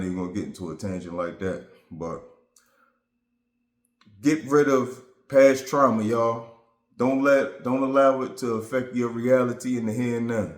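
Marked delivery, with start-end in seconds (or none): 4.2-10.5 louder emphatic call to the audience; rally them, louder; urging viewers. Real, not acted.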